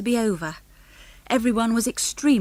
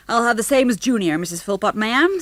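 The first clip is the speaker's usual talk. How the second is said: American father; 3 semitones higher, 4 dB louder than usual. Acted. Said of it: "loud American voices".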